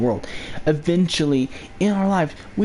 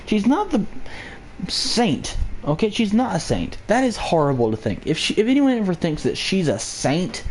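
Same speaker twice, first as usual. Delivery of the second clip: a light mock hillbilly accent, pitched up; 2 semitones higher than usual. Vlogger to viewers, mocking hillbilly accent. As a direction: slip into a lazy hillbilly twang for a joke. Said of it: "that whole fucking hillbilly fuck accent".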